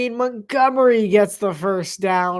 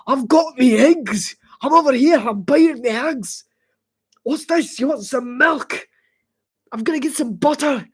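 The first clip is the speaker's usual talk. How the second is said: loud, higher comic Scottish brogue; Scottish accent; 4 semitones higher, 4 dB louder than usual. Acted. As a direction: bellow a hammed-up Scottish accent. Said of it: "you start talking in Scottish accents".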